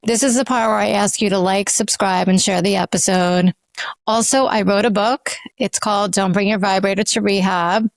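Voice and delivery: measured podcast self-promo read; host plug read. Real, not acted. Host pitching their book to listeners in a break, measured ad read. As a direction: read the break plug evenly, with clear pauses.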